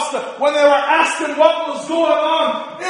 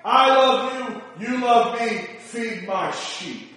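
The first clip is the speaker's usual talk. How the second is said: slow, much softer, gentle reassurance; tender and slow; 3 semitones lower, 5 dB quieter, slower than usual. Acted. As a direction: let it settle, softly and slowly. Softer close of Jesus's words.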